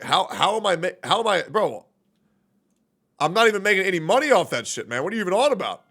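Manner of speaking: incredulous, insistent comeback; exasperated protest. Real, not acted. Streamer answering chat's sellout jab, exasperated. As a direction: protest the accusation with rising exasperation. Disputes being called a sellout.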